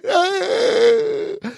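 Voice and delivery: high comic crying wail; exaggerated sobbing cry; mock wail. Retold wail answering the kids.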